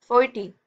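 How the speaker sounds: "फोर्टी" with attention on the टी; stress on syllable. Shown as a demonstration. Teacher explaining syllable stress, focus on टी in "फोर्टी". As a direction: give टी its own weight in "फोर्टी". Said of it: "टी पे आपका ज्यादा focus".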